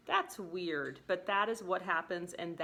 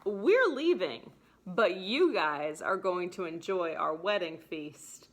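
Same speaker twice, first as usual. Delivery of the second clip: lightly hammed-up groom leaving his own wedding; acting out Petruchio; 4 dB louder than usual. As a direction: cheerfully send the guests off, then announce the exit. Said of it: "And Petruchio is like".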